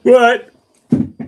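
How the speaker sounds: talking through a yawn. Real, not acted. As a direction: yawn mid-sentence. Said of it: "Yawning and leaning back".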